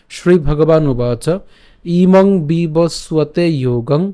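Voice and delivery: the shloka intoned slowly, line by line; slow verse recitation. Shown as a demonstration. Teacher recites the whole verse again for practice. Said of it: "তাহলে আমি আবার যদি বলি".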